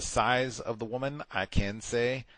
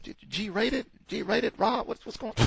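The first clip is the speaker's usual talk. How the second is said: high-pitched stunned questioning, much higher; incredulous disbelief; 13 semitones higher, slower than usual. Retold or imitated. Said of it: "I said".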